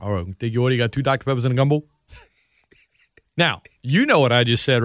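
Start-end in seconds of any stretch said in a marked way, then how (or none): 0.0-1.8 quick local order-taker's accent; local Louisiana accent. Shown as a demonstration. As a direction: rattle off the order in Louisiana speech. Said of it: "I was taking an order".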